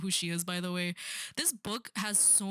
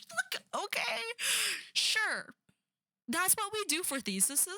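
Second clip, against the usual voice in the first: sarcastic; 13 semitones higher than usual. Real, not acted. Sarcastic reaction to the thesis.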